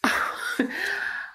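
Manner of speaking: airy, high laugh; helpless laugh. Real, not acted. Mother lost for words about her son, helpless laugh.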